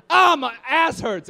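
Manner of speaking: loud, high, slow wail; hammed-up comic complaint; mock pain. Injured friend complaining in the hospital, slow mock wail.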